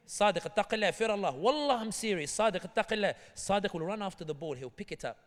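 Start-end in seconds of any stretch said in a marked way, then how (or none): 0.1-3.1 pleading. Retold or imitated. Players plead with Sadiq.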